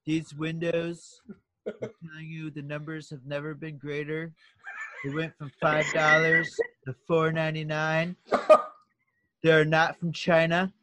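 slow, emphatic Trump-style boasting; Trump impression. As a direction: pitch it like Trump selling windows. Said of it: "give us a nice Trump impression".

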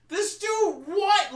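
very high, loud mock shriek of disbelief; shocked disbelief. Player realizing he killed a family, high shocked shriek. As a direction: yelp it in stunned horror.

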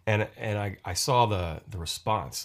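ordinary talk

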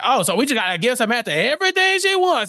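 exasperated retort, pitched high; fed up. Retold or imitated. Harvey complains to Lewis about always giving in to Samantha, fed up. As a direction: imitate a fed-up boss, voice climbing. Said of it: "Harvey is fed up".

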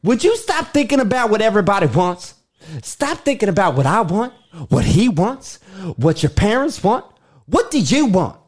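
urgent, insistent; pressing lover. Acted. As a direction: demand an honest answer. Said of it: "Cut. Scene".

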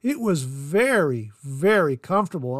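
slowed, emphatic very, very comfortable; stress on comfortable. Shown as a demonstration. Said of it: "Let me stress the word comfortable".

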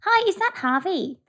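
polite phone reporter voice; lightly put-on tabloid reporter. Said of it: "work on her reporter voice".

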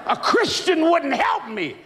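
high, slow, laughing punchline; preaching shout. Real, not acted. Preacher driving home the lesson, high and slow. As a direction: drive the point home.

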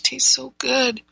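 with a slurp of coffee. Real, not acted. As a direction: talk right after a sip of espresso. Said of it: "sorry, I'm slurping".

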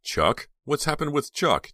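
high, loud worried question; urgent, alarmed questioning; demanding. A narrator's reading. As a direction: demand to know what happened. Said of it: "Dina demanded".

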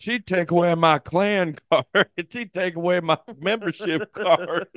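put-on high hick kid voice breaking into laughter; white trash kid. Riffing as the white trash kid, high hick voice with laughs. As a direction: whine like a redneck boy, amused by the bit. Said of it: "that fucking white trash".

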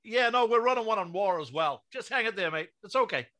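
a mock American tough guy calling out; botched American accent. Hosts mocking a wrestling promo, in a mock American accent. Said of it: "I would hate to know what accent that was meant to be".

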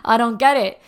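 loud, flustered protest. Retold or imitated. Student retelling her confusion to her mentor, flustered. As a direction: blurt it out loudly, acting flustered. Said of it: "I got, like, flustered".

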